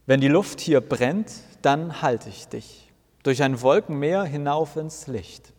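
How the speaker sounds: slow, weighty recital of the lyric; emphatic recital. Acted. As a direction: declaim each word like a sacred verse. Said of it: "mit aller Nachdrücklichkeit".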